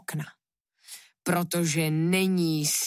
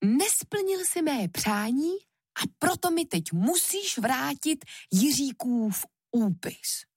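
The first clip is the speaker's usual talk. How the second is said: indignant demand; 8 semitones higher than usual. A narrator's reading. Queen demands the pact back after hurting.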